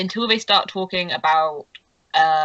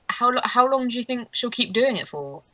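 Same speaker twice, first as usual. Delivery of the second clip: lightly voiced curious gossip, a little higher; a hint of a character voice, less high-pitched; Lucy; 4 semitones higher than usual. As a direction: ask it with a slight lift in pitch. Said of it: "Lucy's kind of like".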